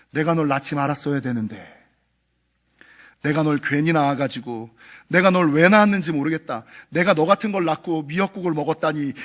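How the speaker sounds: a hint of a resentful mother, low and muted; bitter mother. Mother rejecting her own child, lightly voiced. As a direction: quote it as a tired, bitter parent. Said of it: "존재를 부정하는 상처의 예를 들어드리면".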